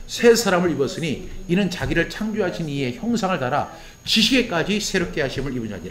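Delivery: steady, measured recitation of 새 사람을 입었으니; solemn scripture proclaimed aloud; proclaimed scripture reading. Shown as a demonstration. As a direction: read it out together as a proclamation. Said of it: "같이 한번 선포합니다. 시작".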